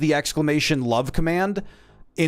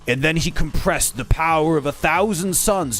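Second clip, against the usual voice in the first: lightly voiced, grand anime narrator; mock anime narrator. Streamer mocking an anime narrator, lightly grand. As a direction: explain every move like an over-eager narrator. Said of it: "the narrator is like".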